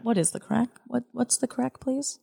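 an American butchering what's the crack in Irish; ruined Irish imitation. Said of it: "I think we ruin it".

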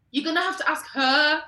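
high, loud and indignant; retold indignant shouting. Cousin to air hostess over a dinner offer, indignant shout. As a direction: raise voice and pitch in protest. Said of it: "she starts shouting at me".

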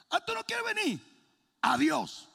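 high mock-indifferent teasing; reverse psychology tease. Pastor pretending to leave the dog, high mock-casual tease. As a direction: fake nonchalance like tricking a kid. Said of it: "como le hace uno a los muchachos".

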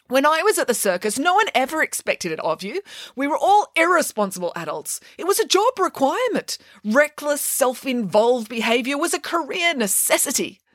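high, fond reminiscing voice; nostalgic Nanny Piggins. Acted. Nanny Piggins telling children of circus life, high and fond. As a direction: wax nostalgic about the circus.

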